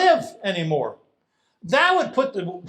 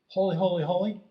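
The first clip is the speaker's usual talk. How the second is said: softer, small and meek; timid little voice; 6 dB quieter, faster than usual. Shown as a demonstration. The seraph's call as it is not, small and soft. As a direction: say it like a tiny whisper of praise. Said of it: "the voice of the seraph isn't a".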